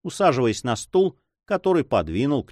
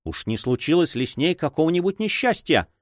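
agitated cry; 7 semitones higher than usual. A narrator's reading. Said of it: "взволнованно вскричал".

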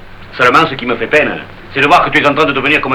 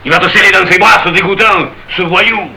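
indignant; 3 semitones higher than usual. Acted. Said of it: "Dans un grand élan d'indignation".

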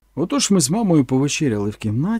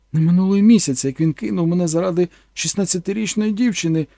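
higher, louder indignant mother; indignant mama; 4 semitones higher, 4 dB louder than usual. Acted. Mother tells her son of betrayal, indignant and raised. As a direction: complain bitterly about him. Mother ranting about the Protestant.

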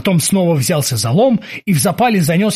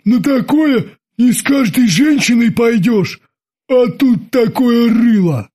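slow, louder disgusted grumble; 7 semitones higher, 3 dB louder, slower than usual. Acted. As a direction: wince at the very thought. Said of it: "Бабс скривился".

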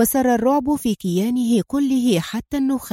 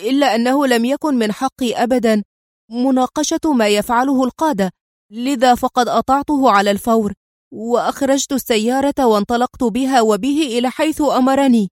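nervous; 3 semitones higher, 3 dB louder than usual. Acted. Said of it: "وقال في توتر".

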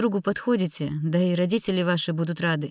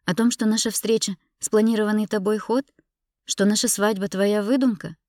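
high, loud, indignant questions; agitated reproach in a raised voice; heated accusation; 5 semitones higher, 5 dB louder than usual. Acted. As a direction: fire accusing questions, then break off. Wife hurls accusations at husband.

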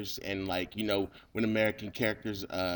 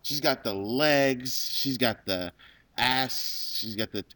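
excited; 3 semitones higher, 5 dB louder, slower than usual. Real, not acted. Ogling woman in the video.

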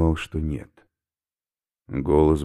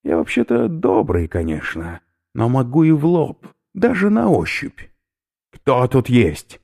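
menacingly gentle; 9 semitones higher, 6 dB louder than usual. Acted. Oberführer coaxes the stranger with a chilling gentle threat. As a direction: sound kind while threatening. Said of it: "Ласковым, до мурашек по коже голосом".

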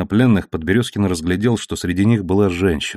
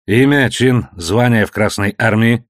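curt, louder interrogation; sharp; 2 semitones higher, 4 dB louder than usual. Acted. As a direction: bark the questions like an officer. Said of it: "спросил резко Корнеман".

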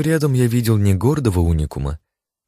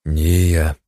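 stern; 3 semitones lower than usual. A narrator's reading. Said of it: "сурово воспротивился я".

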